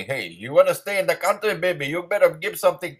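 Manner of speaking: lightly voiced, leaning, threatening hustler; a hint of a mob heavy squeezing a victim; shakedown thug. Immigrant told to pay up, lightly voiced shakedown thug. Voicing an extortionist demanding money.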